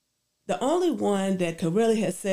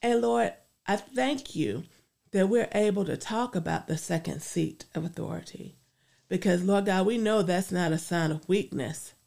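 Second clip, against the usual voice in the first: earnest spoken prayer. Acted. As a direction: pray it out sincerely. Leads a closing prayer.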